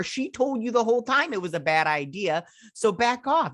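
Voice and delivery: high, indignant telling-off; exasperated scolding. Retold or imitated. Viewer scolding Batman for snapping at his friend, high indignant rant. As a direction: scold him like he's a rude kid.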